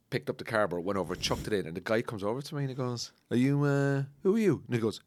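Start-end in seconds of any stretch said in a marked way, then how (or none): 3.3-4.6 mock confrontation. Dump worker confronting him, retold.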